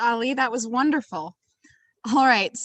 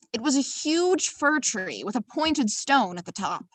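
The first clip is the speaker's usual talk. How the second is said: put-on storytelling in a lilting, amateur Irish accent; swooping Irish-accented narration; 4 dB quieter than usual. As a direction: read the tale with a sing-song Irish accent. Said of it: "apologies in advance for my terrible accent".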